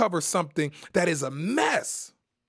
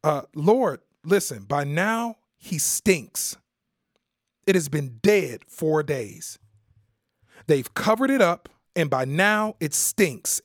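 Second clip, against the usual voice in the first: drawn-out plea; 2 semitones lower, slower than usual. Acted. Martha's objection voiced.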